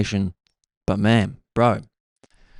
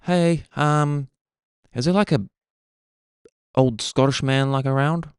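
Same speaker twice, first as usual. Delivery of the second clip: higher-pitched voice of a woman caller; imitated lady; 4 semitones higher than usual. Lady on payphone asks for Scottish man, high imitated voice. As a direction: lift the voice high, asking hesitantly. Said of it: "this lady's just like".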